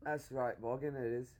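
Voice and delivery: British slang accent, casually assured. Shown as a demonstration. Showing off to one who can't, British accent. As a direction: answer in a put-on British accent. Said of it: "I can't do that".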